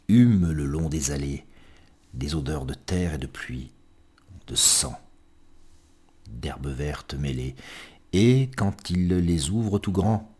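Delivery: unhurried recital, pausing after each image; poem reading. Acted. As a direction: let the lines sink gently at their ends. Reads a poem aloud. (lecture de poème lente et posée)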